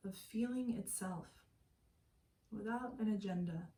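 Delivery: calm, unhurried meditation guide with long pauses; guided meditation. Acted. Meditation teacher settling listeners lying down for yoga nidra, calm guided meditation. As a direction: ease them into stillness, pausing between phrases.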